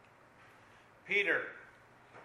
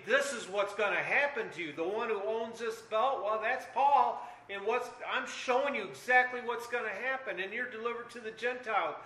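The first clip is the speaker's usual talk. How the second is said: higher, louder prophetic warning; urgent prophet voice, raised and insistent; acted prophet's warning; 4 semitones higher, 5 dB louder than usual. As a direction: proclaim it like a prophet showing the future. Preacher acts out Agabus's prophecy.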